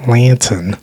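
Australian accent, a drawn-out reluctant try; attempted Australian accent. Shown as a demonstration. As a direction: have a frustrated go at an Australian accent. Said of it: "say lantern how you would in an Australian accent".

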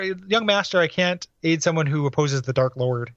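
lightly voiced grizzled miner; old prospector. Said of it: "He sounds like a prospector".

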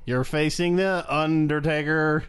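Teddy Long impression. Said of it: "'cause I'm Teddy Long".

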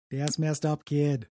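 lightly done Boston impression; attempted Boston accent. Co-host takes a turn as Ben Affleck, attempted Boston accent. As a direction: try the line in Boston speech. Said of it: "I can't do a Boston accent".

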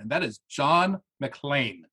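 slow Texas drawl on John McClane; Texas accent. Pretend. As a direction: lay on a Texan twang at the end. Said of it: "Oh, I hear it at the end there".

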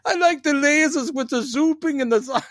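high, sing-song taunting voice; taunting Toymaker. Retold or imitated. Toymaker taunting the Doctor about toys, high mocking. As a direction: tease like a villain mocking a child. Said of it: "He's like going".

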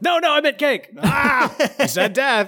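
Church of England vicar. Retold or imitated. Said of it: "Crick is like".

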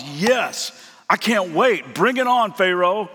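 an overeager hero, played for laughs; mock eager bravado. Preacher mocking Moses' imagined bold reply to God, hammed-up eagerness.

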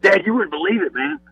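lightly voiced excited sons; excited kids. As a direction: imitate the boys telling Dad what they saw, slowed on the machine part. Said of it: "and they said".

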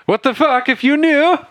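high, loud furious demand; angry outburst. Acted. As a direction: yell it at him in outrage. NPC Rickard angrily confronts player.

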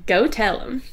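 put-on God as a kindly Southerner, Southern accent. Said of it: "He said it with a Southern accent".

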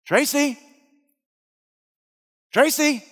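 high, loud call across the camp; yelling a name. Retold or imitated. Campers calling for the lost girl, loud yell. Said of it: "we yell her name".

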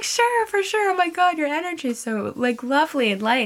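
high-pitched, gushing imitation; gushing friendliness. Girl from Australia agreeing to give a hug, gushing. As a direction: act out a sweetly effusive yes. Acting out stranger's gushing reply.

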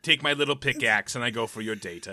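lightly voiced gloating supervillain; a hint of cartoon villain menace; slow theatrical villain menace. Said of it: "you sound like a villain that's gonna be in".

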